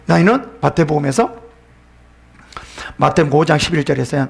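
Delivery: ordinary delivery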